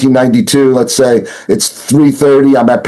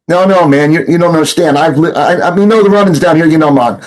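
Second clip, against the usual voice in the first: pleading in rough, higher-pitched Jamaican patois; broken Jamaican patois; 4 semitones higher than usual. Retold or imitated. To the Jamaican accusing him, pleading in broken Jamaican patois. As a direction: fake a Jamaican patois to talk your way out, voice up high. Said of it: "I'm talking patois to him, my broken patois".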